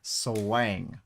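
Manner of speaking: SWANG stretched out Texas-style; Texas accent. Shown as a demonstration. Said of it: "you gotta have swang".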